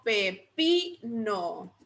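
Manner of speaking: "pepino" slowly split pe-pi-no; syllable by syllable. Shown as a demonstration. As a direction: sound out "pepino" slowly, leaning on pi. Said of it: "¿Dónde llevará el acento?".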